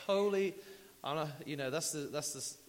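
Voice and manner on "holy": holy blurted loud and high; an excited outburst; exclaimed. Real, not acted. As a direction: burst out with it. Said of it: "exclaiming holy".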